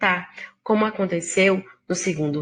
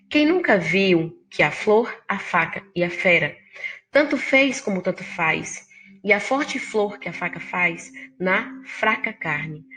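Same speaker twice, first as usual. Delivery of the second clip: measured poetry reading; poem recital. Acted. Teacher reading Leminski's poem aloud, measured.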